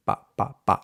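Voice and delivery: Pa with no puff of air; short, unaspirated Pa; curled-lip p. Shown as a demonstration. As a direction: curl lips in for a muted Pa. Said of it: "curl your lips in".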